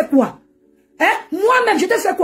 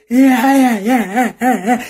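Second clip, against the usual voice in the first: laughing; 5 semitones lower, much slower than usual. Real, not acted. Laughing reply to viewers.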